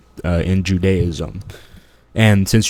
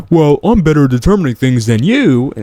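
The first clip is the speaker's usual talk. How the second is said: higher, louder mock quote; imitating opponent; 6 semitones higher, 5 dB louder than usual. Host quoting his opponent back, imitating him higher and louder. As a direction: put on the opponent's claim, pitched up. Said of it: "When he says".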